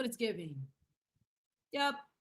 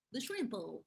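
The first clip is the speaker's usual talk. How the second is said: quirky pet pronunciation. Shown as a demonstration. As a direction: relish the silly word shrimpo. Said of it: "I wanna say it like that".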